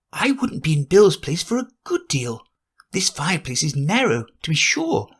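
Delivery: put-on a curious girl thinking aloud; Alice to herself.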